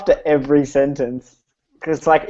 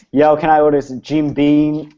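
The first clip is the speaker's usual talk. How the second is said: put-on halting, giggly stab at an American accent; badly faked American; slower than usual. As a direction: put on a slow American accent, breaking into laughs. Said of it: "ask me for a Jim Beam in an American accent".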